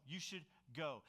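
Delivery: sincere, even permission to go; genuine approval, retold. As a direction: give honest leave, without an edge. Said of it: "this is genuine approval".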